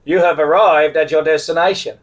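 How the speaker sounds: imitating a satnav announcement; GPS voice. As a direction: announce it like a navigation system. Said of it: "the G P S goes".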